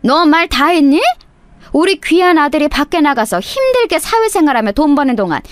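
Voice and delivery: mother-in-law scolding the daughter-in-law on the phone, indignant; angry mother-in-law. Acted. Mother-in-law snaps back angrily.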